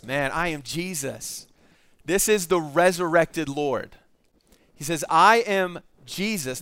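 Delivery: grave and measured, as the risen Lord; solemn reveal. Acted. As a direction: let each word land slowly. Solemn declaration of Jesus.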